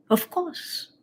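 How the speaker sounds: laughing through the words. Real, not acted. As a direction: chuckle it out. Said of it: "Of course. (repeated in whisper)".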